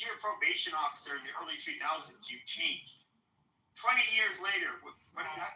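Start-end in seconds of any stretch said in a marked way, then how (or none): 2.3-3.1 mock pleading. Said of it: "I'm sure you were saying".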